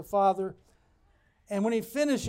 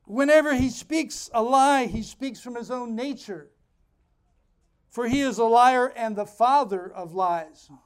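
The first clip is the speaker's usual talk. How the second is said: full-force preaching; 3 semitones higher, 6 dB louder than usual. Acted. Pastor hammering the verses home, loud preaching. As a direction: preach it out over the congregation.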